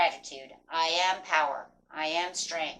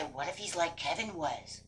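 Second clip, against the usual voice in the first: a fretful inner voice that rises to louder alarm; worried inner voice; 6 dB louder than usual. Retold or imitated. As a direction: play the anxious mind, getting more alarmed. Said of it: "it's gonna say".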